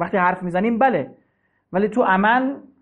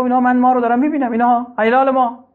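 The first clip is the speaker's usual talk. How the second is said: insistent; 5 semitones higher, 4 dB louder than usual. Retold or imitated. Man insists he sees moon.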